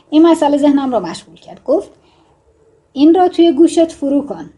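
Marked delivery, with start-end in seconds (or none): 2.9-4.5 higher, louder angry command. Shown as a demonstration. Writing teacher demonstrating an angry line of dialogue, angry. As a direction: drive the order home crossly. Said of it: "آیا عصبانی گفت بهتر نیست".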